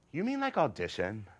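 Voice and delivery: rising, wide-eyed hopeful query; hopeful question. Acted. Son asking father about tryouts, hopeful excitement. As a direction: ask as if it's showbiz.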